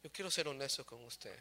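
low, soft confession to God; humble prayer. Retold or imitated. Preacher tells the Lord he wants to be honest, humble and low. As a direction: plead quietly and honestly, voice dropped.

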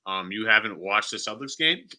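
talking around a piece of ice; words round an ice cube in the mouth. Real, not acted. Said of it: "I have a piece of ice in my mouth".

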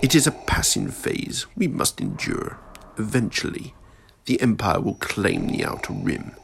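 a lightly voiced, cold old Emperor scolding his apprentice; scornful ruler reproaching a failed servant; menacing Emperor. Emperor answers Vader.

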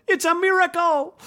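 shouted high with wonder; excited yell. A narrator's reading. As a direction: yell it like you've seen a miracle. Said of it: "and yelled".

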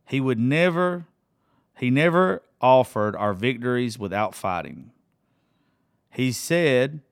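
slow, earnest reading of song lyrics. Acted. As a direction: read each lyric line slowly, letting it sink in. Reads song chorus aloud.

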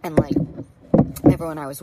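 just after a sip of tea; sipping hot tea. Real, not acted. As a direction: speak right after swallowing tea. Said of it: "let me sip my tea".

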